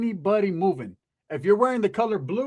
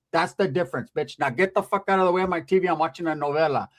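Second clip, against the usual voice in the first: gangster grandma. Retold or imitated. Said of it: "My grandma was like ... but gangster".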